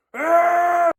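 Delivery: squealed falsetto "ah"; loud high warning cry; high-pitched yell. Real, not acted. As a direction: let out a high scare yell. Scaring off a supposed burglar.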